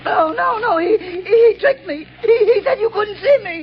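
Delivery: crying madman. Acted. Madman whimpering.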